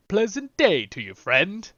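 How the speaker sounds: lightly mimicked hobbit greeting; a hint of a cheery hobbit; game hobbit line. Echoing the game's hobbit to the viewers, lightly hobbitish. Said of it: "Let's hear that one more time".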